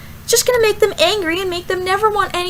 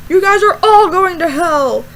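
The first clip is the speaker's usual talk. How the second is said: loud imitation of hellfire pastor; mock yell; 5 dB louder than usual. Pastor yelling at couple holding hands, mock yell. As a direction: condemn the whole group like a yelling preacher. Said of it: "He yells".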